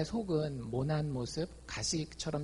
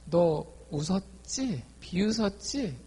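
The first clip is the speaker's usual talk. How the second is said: 너 웃었지 drawn out slow, 비웃었지 pitched higher; slow pointed accusation; 4 semitones higher, slower than usual. Retold or imitated. God slowly calling Sarah out on her laughter, slow and pointed. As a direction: spell out the charge slowly, word by word. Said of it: "하나님이 그걸 딱 지적합니다".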